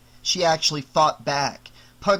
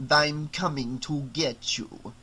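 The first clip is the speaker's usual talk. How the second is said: put-on Transylvanian accent; slower than usual. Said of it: "low, near Transylvanian accent".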